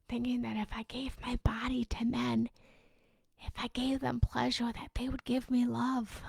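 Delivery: whispered confession; hushed unvoiced whisper. Real, not acted. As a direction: let it fall to a whisper. Confessing past behaviour.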